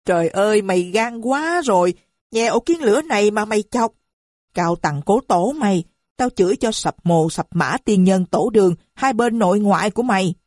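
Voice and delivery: wife screaming curses at her husband. Acted. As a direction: curse his whole family line at full voice. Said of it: "Tư Búp hét".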